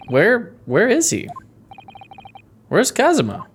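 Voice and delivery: high, worried questioning; acted dread for a friend; anxious alarm. Character fears for missing friend.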